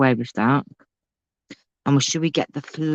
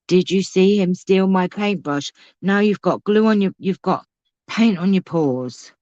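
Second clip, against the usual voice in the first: higher, sing-song pet talk; mock scolding the pet; 5 semitones higher than usual. Real, not acted. Crafter playfully telling off the cat for stealing the paintbrush, higher pet voice.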